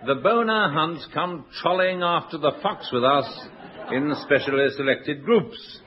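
slow, savouring advert read. Retold or imitated. Host reading a hunt advert aloud, slow and relishing. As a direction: drawl out the ad copy slowly. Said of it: "the advertisement read".

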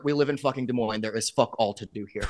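said through a laugh; chuckling while griping. Real, not acted. Laughing complaint about Des Moines.

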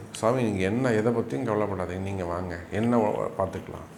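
low, soft reassuring quote; retold reassurance. Family telling the astrologer not to worry, softly reassuring.

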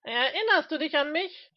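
high, loud challenge; called out. Acted. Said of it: "rief Mister Smith".

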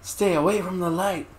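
high, eerie warning; spooky voice. Pretend. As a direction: warn like a ghost. Spooky put-on voice.

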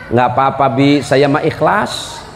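slow, lightly voiced wife, sincere and a little coy; wife's sweet reassurance. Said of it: "istri saya kan orang Sunda".

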